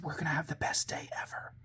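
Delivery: very quiet, as if making a class lean in; softly spellbinding whisper to children. Retold or imitated. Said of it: "in a very quiet whisper tone".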